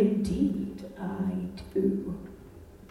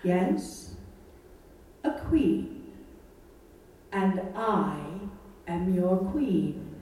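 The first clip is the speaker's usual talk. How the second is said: Queen Marie of Romania. Acted. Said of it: "Marie of Romania".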